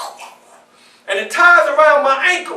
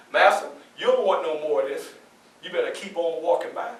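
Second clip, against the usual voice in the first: defiant inner thought; 8 semitones lower, 9 dB quieter than usual. Retold or imitated.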